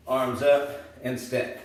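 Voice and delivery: "Arms up and step" said slowly, stretched out as a count-in; slow coaching cue. Shown as a demonstration. Trainer cueing beginners at home, slow and stretched. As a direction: call the move out slowly for beginners. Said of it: "I just want arms up and step".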